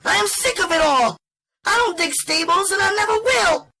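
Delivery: high-pitched, fast-talking woman fed up and daring him; spitting defiance. Acted. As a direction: spit it out in a furious high rush. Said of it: "when she spat out her invitation".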